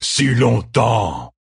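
very slow, drawn out hunger; second fox echoes, savouring; ecstatic creature. A narrator's reading. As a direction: stretch the words like a long sigh. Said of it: "lui fit écho un autre".

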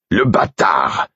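slow, indignant exclamation; outraged. A narrator's reading. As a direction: throw the word back, drawn out in outrage. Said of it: "Jamais je n'avais vu Burick aussi outragé". (exclamation lente et outragée)

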